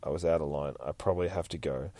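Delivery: low, hushed apology; quiet retold whisper, still voiced; confidential murmur. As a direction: lean in and speak softly, privately. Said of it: "Whispers into Reese's ear".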